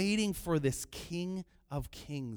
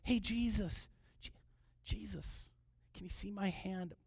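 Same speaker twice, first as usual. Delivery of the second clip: very soft, hesitant attempt at attention; timid little call; 4 semitones higher, 8 dB quieter than usual. Preacher mocks a too-polite beggar, timid soft call. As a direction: call out meekly, barely daring to be heard. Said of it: "No, he cried out".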